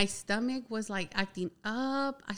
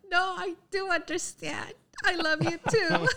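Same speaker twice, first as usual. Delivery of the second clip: higher and louder, earnest; eager insistence; 9 semitones higher, 4 dB louder than usual. Retold or imitated. Retold phone call, eagerly insisting she loves her too. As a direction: insist happily, much higher.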